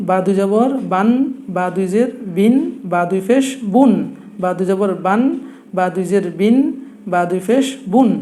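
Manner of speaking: measured chant-like drill of বান, বিন, বুন; tanween recitation drill. Shown as a demonstration. Teacher repeating the tanween sounds for learners, drilling বান, বিন, বুন. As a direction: land each of বান, বিন, বুন on a held n. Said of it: "তাহলে আমরা আবার বলি".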